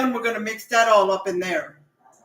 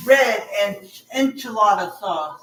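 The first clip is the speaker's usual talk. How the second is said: sticky mouth; 2 semitones lower, slower than usual. Real, not acted. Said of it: "hard for me to say it 'cause my mouth is all sticky".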